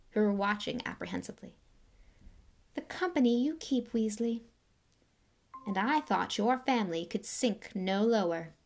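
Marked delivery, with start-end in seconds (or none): 2.7-8.5 cold aristocrat. Acted. Lucius greeting Arthur, lightly voiced cold disdain. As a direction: greet him like something unpleasant.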